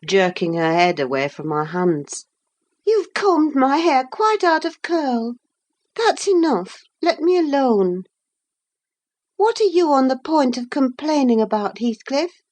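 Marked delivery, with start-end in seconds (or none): 2.9-12.4 put-on higher, pouting and impatient girl's voice; petulant young Catherine. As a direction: brush off the maid, then press Heathcliff.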